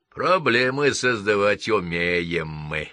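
slow, smug and pleased. Acted. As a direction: drawl it with self-satisfaction. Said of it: "самодовольно ухмыльнулись".

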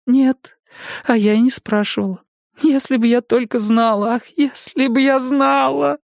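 высокий горестный старческий голос; старушка в отчаянии; сокрушённая старушка. A narrator's reading. Jenny laments. (голос горюющей старушки)

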